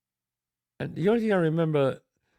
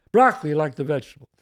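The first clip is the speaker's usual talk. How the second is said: louder, quick imitation of a friend; friend's catchphrase; 6 dB louder, faster than usual. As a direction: punch out his pet line, fast. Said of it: "that's what he always says".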